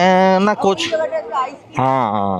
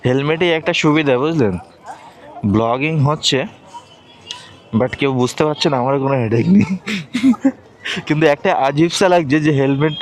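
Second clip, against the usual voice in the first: muffled talk through a helmet; inside a helmet. Real, not acted. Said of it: "helmet পরে আছি এখনো".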